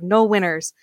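Noel Winters run together quickly as "Winners"; local quick pronunciation. Shown as a demonstration. Guest showing host the hometown way, Winters said quickly without T. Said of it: "we usually say it very fast".

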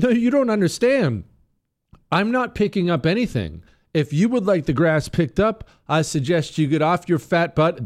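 high-pitched indignant refusal; defiant. Retold or imitated. Homeowner refusing the association on the phone, high defiant retort. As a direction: act out standing your ground.

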